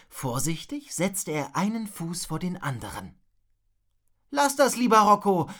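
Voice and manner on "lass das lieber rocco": besorgt und höher rufen; loud, high warning call; Zuruf. A narrator's reading. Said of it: "rief Wilma ihm zu". (warnend hinüberrufen)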